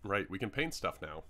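talking through hiccups; hiccupping between words. Real, not acted. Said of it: "I have the hiccups".

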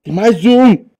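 very high, loud alarmed cries; panicked yelling. Real, not acted. Player swarmed by monsters, frantic shouting. More monsters appear in game.

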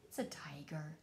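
hushed secret whisper. Acted. Revealing the tiger secretly.

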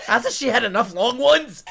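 very high, loud, dragged-out yell; outraged shout. Real, not acted. Streamer spotting the same actress again, drawn-out shout. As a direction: stretch the whole line into a scream.

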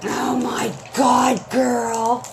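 slow, drawn-out cry of delight; excited exclamation. Real, not acted. Host to absent friend on seeing the balloons, excited. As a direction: exclaim at the gift. Opening next gift.

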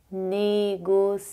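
"Négociateur" said clearly with a final "teur" r; model pronunciation. Shown as a demonstration. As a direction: say "Négociateur" for the class to repeat, ending in "œʁ". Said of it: "Repete aí".

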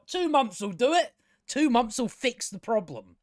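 high, sing-song mock confidence; mocking quote. Reviewer mocking the character's two-month promise, high and sing-song. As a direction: parody her breezy promise, pitched well up. Mocking her deadline claim.

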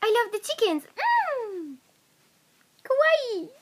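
high-pitched fake Japanese accent; mock Japanese accent. Player gives friend a sentence to guess, mock Japanese accent. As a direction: put on a high Japanese-style voice.

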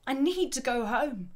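milder repeat of a desperate plea; emphatic, emotional. Acted. Teacher re-reading a shouted plea, emphatic and emotional. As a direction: stress the need, emotional but short of shouting. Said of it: "Sounds quite emphatic, quite emotional".

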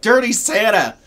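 put-on high, loud kid pointing him out; loud child's cry. Girl pointing out the man to her mom, high and loud. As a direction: call it out across the aisle. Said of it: "so that she could point me out".

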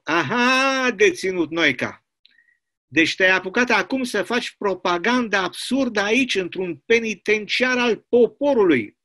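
a hint of a bullying commandant; stern commandant. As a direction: accuse him like a prison boss. Commandant accuses the prisoner.

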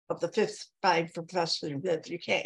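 stumbling over the words; muddled, stuttering false starts; tongue-tied. Real, not acted. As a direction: trip over your words mid-sentence. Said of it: "drinking when you talk like this".

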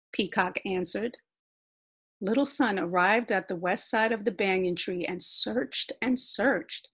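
usual speaking voice

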